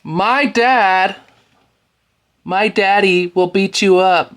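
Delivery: high, whiny mock child voice; whiny little boy taunt; mocking whiny kid. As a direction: mimic a kid crying for his daddy. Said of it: "now your daddy's coming in to fight your battles".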